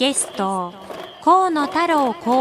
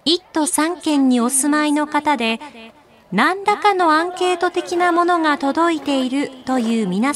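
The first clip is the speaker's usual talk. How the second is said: ultra polite singsong store announcement; much faster than usual. Acted.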